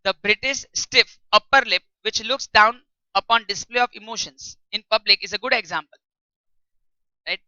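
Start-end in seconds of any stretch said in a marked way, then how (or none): 0.0-6.0 slow, deliberate English read-aloud for students; textbook reading. Shown as a demonstration. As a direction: read each phrase out slowly like dictation.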